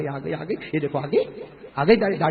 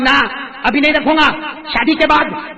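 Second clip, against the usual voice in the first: put-on cheeky young man; 8 semitones higher, 8 dB louder, slower than usual. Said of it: "تو جوان نے کیا کہا معلوم؟".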